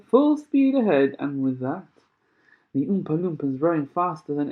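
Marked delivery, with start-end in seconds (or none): 0.0-1.1 high, loud and slow rallying cry; shouted command. A narrator's reading. Mister Wonka driving the boat into the dark, shouting. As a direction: drag it out as a big loud order. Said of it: "shouted Mister Wonka".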